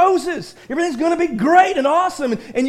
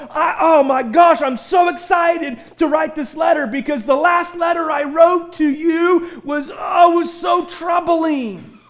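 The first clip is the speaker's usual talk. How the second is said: excited Paul; 2 semitones higher, slower than usual. Retold or imitated. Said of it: "I can see Paul literally just going".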